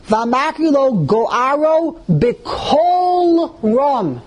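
very slow, stretched-out reading; declaimed mock shout. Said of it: "He shouts".

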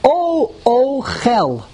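"O, Chel" split, with a long held O; syllable by syllable. Shown as a demonstration. Teacher sounding out the vowels, "O, Chel" in separate syllables. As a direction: draw out the O, then land a short "Chel". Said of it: "That's why it's".

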